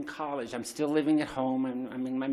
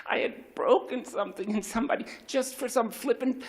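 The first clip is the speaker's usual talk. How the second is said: whispered shame; 8 semitones higher than usual. Real, not acted. Shame remembering the harm done.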